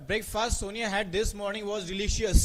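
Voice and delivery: very slow, word by word; dictating the next question slowly; slow dictation. Shown as a demonstration. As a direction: spell out the sentence slowly for students. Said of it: "slow dictation of sentence".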